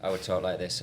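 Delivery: flat, unchanging monotone. Shown as a demonstration. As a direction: talk with no change in tone. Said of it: "seriously monotone".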